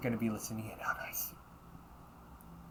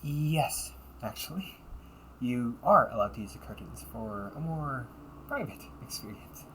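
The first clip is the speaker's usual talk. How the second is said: bright, sweet customer-service voice; the perfect polite maid serving a guest; polite cafe maid. Acted.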